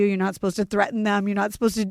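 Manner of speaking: ordinary delivery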